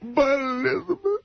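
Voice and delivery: hammed-up sobbing over a lost love; crying Iron Sheik. Asked by the host, Sheik does his crying act. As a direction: blubber the lines in mock grief. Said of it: "can you do the crying Iron Sheik".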